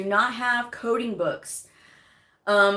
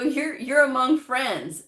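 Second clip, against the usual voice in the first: slow, gentle imitation of the panel; reassuring; 4 semitones higher, slower than usual. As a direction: ease them in slowly, mildly comforting. Interviewers reassuring nervous candidate.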